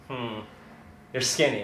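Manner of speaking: soft, low, unimpressed; quiet appraisal. Retold or imitated. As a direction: size up the newcomer under your breath. Staff size up the newcomer.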